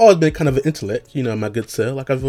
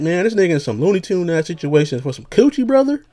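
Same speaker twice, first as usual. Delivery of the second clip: rising higher and louder to a squeal on coochie; ranting to friends about the movie's hero, climbing higher; incredulous rant; 6 semitones higher, 4 dB louder than usual. Retold or imitated. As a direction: build from disbelief to a high outraged squeak. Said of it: "And I'm like".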